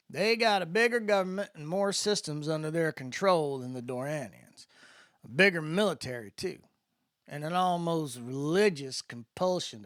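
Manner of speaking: a lightly voiced easygoing spacer; a hint of the drawling guide filling in the new kid; Landon's voice. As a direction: explain it in Landon's laid-back voice. Landon's voice in the story.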